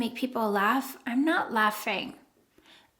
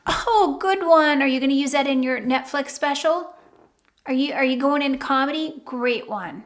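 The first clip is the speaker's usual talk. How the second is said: sarcastic. Shown as a demonstration. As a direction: tease them with fake admiration. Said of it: "A little bit of sarcasm there".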